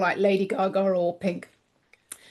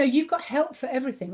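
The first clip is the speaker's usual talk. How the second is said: a tired voice starting to go, dropping softer; voice giving out; 4 semitones higher, 4 dB quieter than usual. Real, not acted. Guest tiring while promoting her dragons, voice going. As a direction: let the voice fade and falter on the line. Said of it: "Oh, my voice is going".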